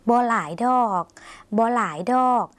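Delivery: บ่หลายดอก with a long, polite ดอก; drawn-out final particle. Shown as a demonstration. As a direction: model บ่หลายดอก for repeating, stretching ดอก. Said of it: "ต้องลากเสียงยาวสักหน่อยนะคะ".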